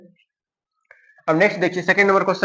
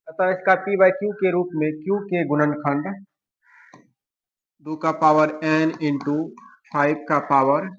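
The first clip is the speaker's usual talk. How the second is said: slow dictation; slower than usual. Real, not acted. Reading back the written answer slowly.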